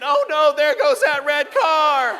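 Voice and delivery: high, loud, slow mock anguish; dismayed dad. Dad at rest stop watching red car pass, loud mock anguish. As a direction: wail over losing the lead.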